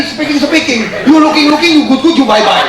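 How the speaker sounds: high, loud imitation of local English; Balinese English. Shown as a demonstration. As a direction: rattle off tourist English like a local. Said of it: "ngomongnya kayak tadi".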